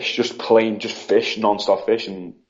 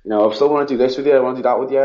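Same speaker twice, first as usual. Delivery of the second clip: higher-pitched, retold plea to a pet; upset pleading; 5 semitones higher than usual. Upset owner begging her sick pet not to die, pleading. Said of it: "getting upset, like, speaking to her".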